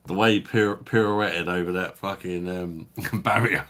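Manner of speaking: amused, giggling delivery; laughing. Real, not acted. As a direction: crack up as you picture it. Laughing at the pirouette image.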